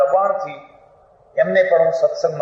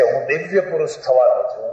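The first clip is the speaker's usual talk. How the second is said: 1 quoting husband; 3 semitones lower than usual. Retold or imitated. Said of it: "એ કહે છે".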